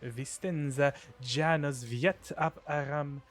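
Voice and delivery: put-on measured, lightly Russian-accented formal welcome. Governor formally welcomes the new arrival, Russian accent. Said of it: "I have to make them Russian".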